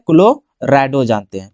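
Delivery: low, drawn-out dictation of the term; slow dictation. Real, not acted. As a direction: stretch it out as you write. Answers own question while writing.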